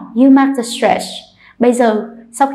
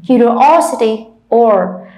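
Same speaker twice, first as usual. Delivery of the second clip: "Curiosity" with the O stressed, then "or" alone; curi-O-sity, then echo "or" by itself; slower than usual. Shown as a demonstration. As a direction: model "Curiosity", isolating stressed "or". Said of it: "see where's the stretch".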